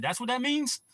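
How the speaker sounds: high-pitched mock disbelief; acted-out incredulous question; retold surprise. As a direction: ask it high, as if just finding out. Retold surprise at learning the meaning.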